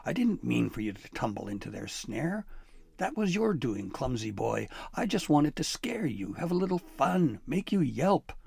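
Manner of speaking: a sheepish, mischievous sprite explaining himself; lightly voiced elf, defensive.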